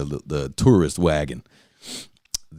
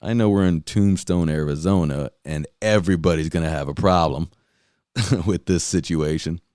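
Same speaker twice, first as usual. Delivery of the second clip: mock supportive parent. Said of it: "The parents are like".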